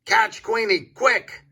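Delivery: very high, loud squawked command; rally everyone with a shriek; loud duck call. A narrator's reading. Dottie calls the other animals to chase, loud high squawk. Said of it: "hear Dottie's loud quacking".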